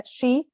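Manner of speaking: "she" said as "shee", rising at the end; pronunciation demo. Shown as a demonstration. Teacher showing students the pronoun, "she" pronounced "shee". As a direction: model "she" clearly as "shee". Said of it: "se pronuncia".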